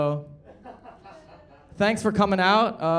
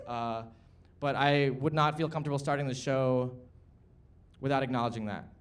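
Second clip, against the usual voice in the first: lower, softer, subdued statement; sober, serious; 4 semitones lower, 5 dB quieter than usual. Real, not acted. Host acknowledging Gaza before the show, sober and subdued. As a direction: drop the showmanship and speak gravely.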